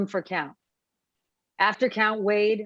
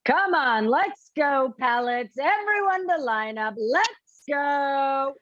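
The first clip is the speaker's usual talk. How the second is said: calling out to inmates; 4 semitones higher than usual. Acted. Guard herding inmates to line up.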